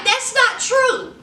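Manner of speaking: hammed-up panicky denial; mock flustered denial. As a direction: sputter out the excuses defensively. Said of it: "He's like".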